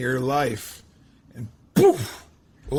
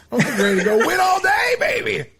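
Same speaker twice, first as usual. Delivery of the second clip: laughing shout, much higher and louder; fired up; 5 dB louder than usual. Real, not acted. Host fired up by the guest's story, laughing shout. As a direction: hype yourself up, ready to win all day. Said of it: "You got me fired up".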